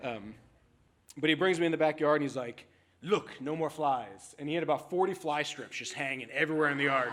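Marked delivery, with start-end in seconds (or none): 3.0-4.3 put-on slow, proud Texas accent; drawn-out Texan boast; slow lightly voiced Texan owner. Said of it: "Texas accent when I do this guy's voice".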